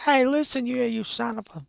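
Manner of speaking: loud, high Bronx tough-guy fairy; Navi from the Bronx. Acted. Streamer plays Navi from the Bronx, loud high Bronx heckling. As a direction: bark it like a Bronx street fairy. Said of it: "Navi from the Bronx".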